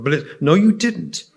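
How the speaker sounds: high, sharp mock snap; imitating the stewardess snapping back; snapped retort. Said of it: "She snapped back".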